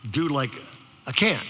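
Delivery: halting mock Valley dude; Valley teenager. Sophomore admits defeat, halting Valley-teen imitation. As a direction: lightly imitate a stumped Valley kid. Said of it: "you know how they talk".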